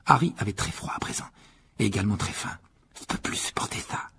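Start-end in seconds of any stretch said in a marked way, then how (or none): 3.0-4.1 soft, voiceless shivering mumble; muttering, teeth chattering. A narrator's reading. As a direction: mutter it under the breath, cold. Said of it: "marmonna Ron en claquant des dents". (marmonné en grelottant)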